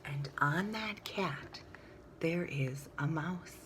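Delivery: slow soft whisper for the tiny mouse. A narrator's reading. Reading to children, slow whisper for the mouse. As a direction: hush down small for the mouse.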